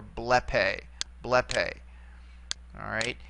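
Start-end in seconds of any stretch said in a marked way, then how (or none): 0.0-1.7 BLEpe, accented on ble; stress on first syllable. Shown as a demonstration. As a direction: put the beat on the ble of blepe. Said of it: "here is where we put the accent".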